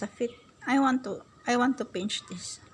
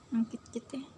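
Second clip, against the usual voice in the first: soft whisper; 5 dB quieter, much faster than usual. Real, not acted. Cooing whisper to baby.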